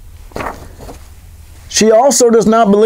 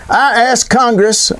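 put-on FDR accent; 5 semitones higher, slower than usual. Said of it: "I do his accent".

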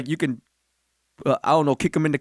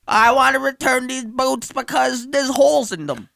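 a slow, raised mock customer; Karen voice; 5 semitones higher than usual. Friend acts a Karen returning worn boots, slow mock whine. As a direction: play the entitled returner, dragging it out. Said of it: "A Karen comes in".

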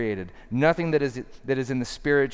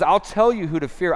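higher, louder, insistent; pointed; 5 semitones higher, 5 dB louder than usual. Acted. Jesus telling listeners whom to fear, pointed. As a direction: really get it across, raised and pointed. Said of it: "he's really trying to get this across".

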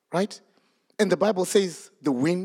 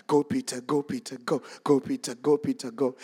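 cheering disciples; 5 semitones lower, 3 dB quieter than usual. Acted. Repeats the disciples' cheering chant.

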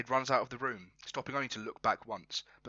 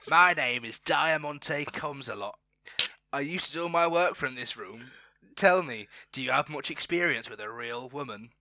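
seductress in put-on accent; 4 dB louder than usual. Diamante introducing herself to Marmalade, seductress in put-on accent. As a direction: lay on a theatrical accent, lifting emphatically. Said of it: "see if I can do an accent".

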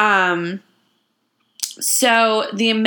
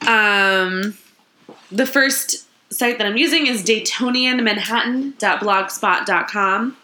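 ordinary delivery

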